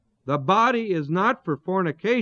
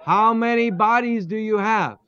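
laughing; 6 semitones higher than usual. Real, not acted. Joking about couple's two bodies.

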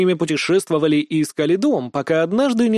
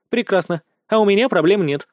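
delighted; 4 semitones higher than usual. Acted. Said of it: "обрадовалась Лина".

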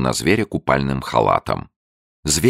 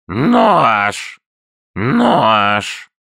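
higher, louder creaky newt shouts; creaky answering voices; 10 semitones higher, 5 dB louder than usual. A narrator's reading. Other newts answer further off in creaky shouts. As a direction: call back like distant creatures. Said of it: "отозвались скрипучие голоса".

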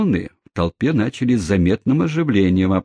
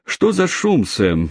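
much higher, curious question; curious call; 10 semitones higher, slower than usual. Acted. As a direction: ask what the fuss is, pitched up high. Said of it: "полюбопытствовал джентльмен".

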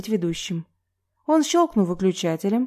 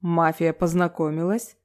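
mysterious voice. Acted. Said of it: "загадочным голосом информировал ведущий".

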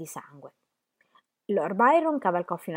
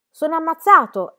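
much higher, much louder cry of a wounded man; anguished shout; 10 semitones higher, 11 dB louder than usual. A narrator's reading. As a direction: scream it as you fall, struck. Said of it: "gridò". (grido disperato da ferito, molto più acuto e forte)

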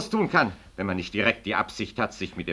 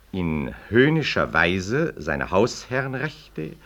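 measured, official reading of a document; formal reading aloud. Acted. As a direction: read the petition out like an official notice. Reads interpellation aloud.

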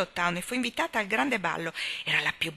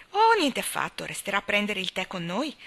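lively retort. Acted. Anna urging Miss Cornelia to stay for tea, lively. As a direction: insist brightly that she stay. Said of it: "ribatté Anna vivacemente".

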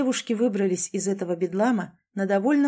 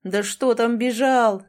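howling; 3 semitones higher, 4 dB louder, slower than usual. Acted. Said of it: "завывал Лео".

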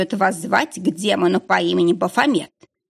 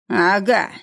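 pleased. A narrator's reading. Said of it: "проговорил он радостно".

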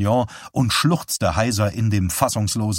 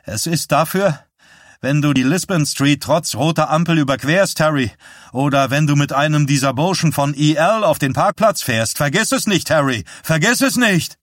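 put-on higher, louder, urgent voice of a teenage boy; hoarse teenage voice; 5 semitones higher, 4 dB louder than usual. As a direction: plead as the scared younger brother, pitched up and loud. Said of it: "Stimme eines Heranwachsenden".

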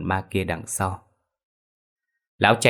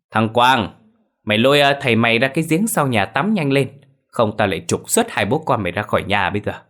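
a louder, commanding wife's voice; bossy wife; 3 semitones higher, 4 dB louder than usual. Acted. Wife ordering her son to take father out, loud commands. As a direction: bark orders at the boy.

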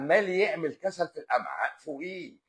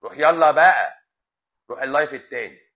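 shooing away; 10 dB louder than usual. Real, not acted. Sending a commenter away.

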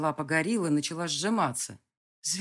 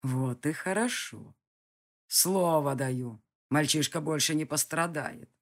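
a distant villain in no hurry; menacing villain; slower than usual. Acted. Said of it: "прозвучал голос извне". (низкий угрожающий голос злодея)

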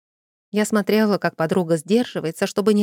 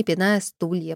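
ordinary delivery, nothing marked

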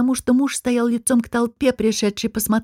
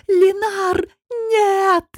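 a wild cry from the balcony, out of her own voice; desperate scream; 10 semitones higher, much slower than usual. A narrator's reading. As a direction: scream his name as if to stop the knife. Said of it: "Не своим голосом закричала Гота".

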